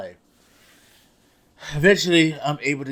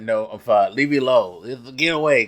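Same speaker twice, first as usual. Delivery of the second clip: irritated brushoff; 6 dB louder than usual. Retold or imitated. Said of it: "'cause I'm mad at that point".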